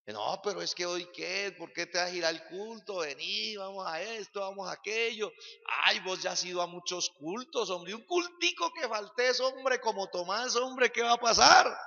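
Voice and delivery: lightly voiced friend talking you out of church; a friend tempting a believer to skip service; coaxing friend. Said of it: "amigos que de pronto le presten la boca".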